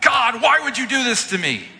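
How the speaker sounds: high, loud, laughing wail at God; playfully hammed-up complaint; half-joking cry of why me; mock lament. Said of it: "And I'm like".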